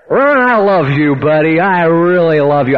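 lightly put-on, slow, drawn-out declaration; imitated effusive Bert. Bert interrupting church to his pastor, imitated effusive affection. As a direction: gush slowly, stretching the words.

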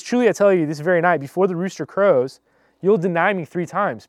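lifted voice, pressing each phrase home; firm confrontation. Acted. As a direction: confront him with a firm prediction. Jesus confronting Peter to his face.

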